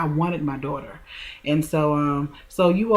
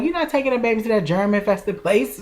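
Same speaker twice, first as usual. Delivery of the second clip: protective sister; 5 semitones higher than usual. Retold or imitated. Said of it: "She was like".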